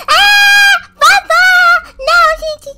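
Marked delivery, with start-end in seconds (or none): 0.1-1.5 high frightened shriek at granny; panicked scream. Real, not acted. Player shrieks as granny catches her, frightened. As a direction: scream as granny grabs you.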